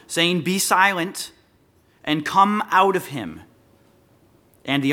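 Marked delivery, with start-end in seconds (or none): 0.4-3.4 firm, measured command with a pause; mild rebuke. Acted. Preacher voicing Jesus ordering out the spirit, mildly rebuking. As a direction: order it out with restrained authority. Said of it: "he rebukes the man".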